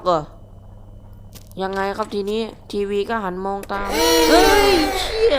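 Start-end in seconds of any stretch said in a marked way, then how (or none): 1.6-5.4 sudden yell of fright mid-sentence; jolted by a jump scare, cry out; startled shout. Real, not acted. Gamer startled by a TV head, shouting in shock.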